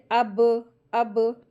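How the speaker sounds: अब with b released in a short echo; qalqala bounce. Shown as a demonstration. Teacher demonstrates qalqala, bouncing b in अब. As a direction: bounce sharply off the b of अब. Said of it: "आवाज़ का bounce होना".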